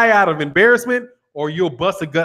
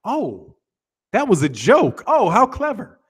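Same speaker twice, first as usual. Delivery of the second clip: mock dry humour. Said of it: "Dry humor. Like".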